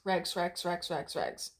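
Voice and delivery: regs rattled off over and over, running together; fast, sloppy repetition. Shown as a demonstration. Teacher showing how regs wore down to rex, fast and sloppy. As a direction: repeat regs quickly, letting the g and s blur towards an x. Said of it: "say it fast enough and you say it sloppy enough".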